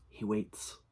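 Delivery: hushed, eerie creature voice. Acted. Creature speaking inside the narrator's head, hushed and eerie. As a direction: let the words seep in like a voice inside the head. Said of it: "the voice returned".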